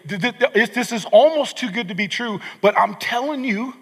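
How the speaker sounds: rising, eager, tripping over words; can barely get it out for joy; excited. Retold or imitated. Jesus bursting with good news for his followers, excited. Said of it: "someone's so excited about something".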